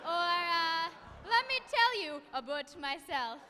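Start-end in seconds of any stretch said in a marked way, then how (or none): 1.3-3.4 put-on Canadian accent. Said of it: "They also say such things as".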